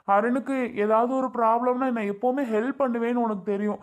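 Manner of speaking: sobbing, wounded protest; tearful pleading. Acted. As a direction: pour out the hurt while crying. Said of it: "சரி, சரி, அழாதீங்க".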